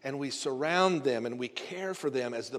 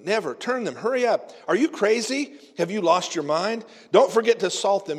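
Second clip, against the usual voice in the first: frantic high yelling, much louder; panicked; 5 semitones higher, 7 dB louder than usual. Acted. Husband bursting into the kitchen at his wife, panicked high yell. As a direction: shriek it in a panic. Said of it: "burst into the kitchen in a panic".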